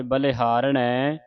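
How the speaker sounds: ਬਲਿਹਾਰਣੈ with a clear nasal ਣ sound, slowly; drawn out ਬਲਿਹਾਰਣੈ, ਣ sounded nasal; nasal ending. Shown as a demonstration. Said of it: "ਨਾਣੀ ਦੀ ਆਵਾਜ਼".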